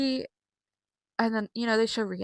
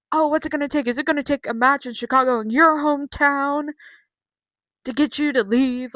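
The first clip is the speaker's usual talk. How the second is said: lightly mimicked challenge, slightly raised voice; Becky; 4 semitones higher, 4 dB louder than usual. Vlogger mimicking Becky baiting A J, mild exasperated challenge. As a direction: imitate an exasperated wrestler issuing a challenge.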